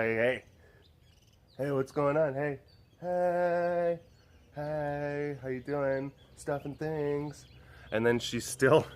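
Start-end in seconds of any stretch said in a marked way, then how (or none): 0.0-7.4 casual greeting. Retold or imitated. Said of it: "I'm just like".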